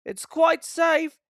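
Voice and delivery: high, slow defiance; stubborn reply. A narrator's reading. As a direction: insist stubbornly. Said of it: "he hissed".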